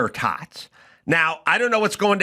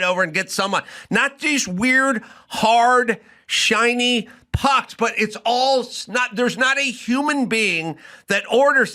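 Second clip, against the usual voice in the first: exasperated rant; 5 semitones higher than usual. Retold or imitated. Comedian ranting at fancy restaurants, exasperated and high. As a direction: beg the world to stop ruining hash browns. Ranting quote at hash browns.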